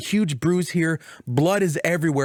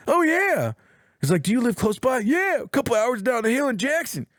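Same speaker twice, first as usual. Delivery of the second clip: lightly acted friendly brother, higher pitch; chatty friendly Tommy; 6 semitones higher than usual. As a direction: chat brightly like a welcoming neighbour. Retelling Tommy's friendly chat with strangers.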